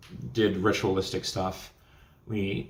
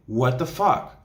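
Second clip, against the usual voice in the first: louder, higher shocked question; stunned disbelief; 5 semitones higher, 5 dB louder, slower than usual. Retold or imitated. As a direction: retell the shock, pitch rising at the end. Retold shock at presence vanishing.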